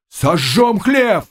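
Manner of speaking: high, slow shout; cossacks shouting. A narrator's reading. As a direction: bellow the threat slowly. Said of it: "кричали казаки". (высоким медленным криком)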